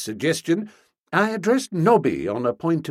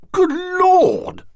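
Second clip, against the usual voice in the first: high loud outburst, full of honest heat; heated cry; 7 dB louder than usual. A narrator's reading. Stilton to Bertie, crying out in heated outrage. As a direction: cry it out, genuinely worked up. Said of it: "he cried with honest heat".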